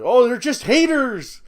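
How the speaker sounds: mocking the critics' excuse; mock dismissive. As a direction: brush it off like a sulky critic.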